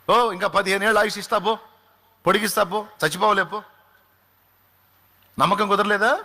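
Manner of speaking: fervent preaching. Acted. Raised sermon climax.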